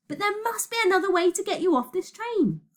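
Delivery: high, desperate pitch; urgent insistence. Acted. Shouted argument on runaway train.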